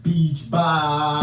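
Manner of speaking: loud, tongue held between fingers; holding tongue. Shown as a demonstration. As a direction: blurt it with your tongue pinched. Repeats the tongue-held phrase.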